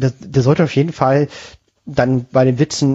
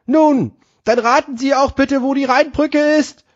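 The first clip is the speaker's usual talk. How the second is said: much higher, slow joke voice; 13 semitones higher than usual. Acted. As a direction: play the puzzled gentleman, slowly. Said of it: "Er antwortet wiederum". (hohe, langsame Witzstimme)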